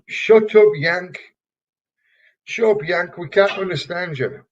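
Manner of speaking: mock barroom heckle, sharp at the start; heckling shout. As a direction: jeer the Yank like a rowdy English crowd. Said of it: "they say".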